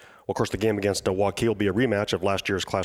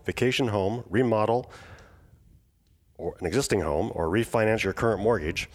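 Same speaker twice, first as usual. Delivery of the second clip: measured podcast ad read; sponsor read. Acted. Host reading mortgage sponsor's message to listeners, scripted ad read.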